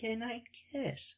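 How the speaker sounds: put-on very high, very hushed, tiny little-boy voice. Retelling a scene where a grown man asks for a goodnight kiss: imitating a childish boy voice. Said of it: "and in his boy voice".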